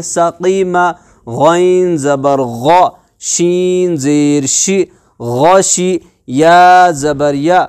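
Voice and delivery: measured chant with drawn-out letter names; teacher leading a syllable drill; spelling drill recitation. Shown as a demonstration. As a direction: recite each letter and vowel steadily, then join them.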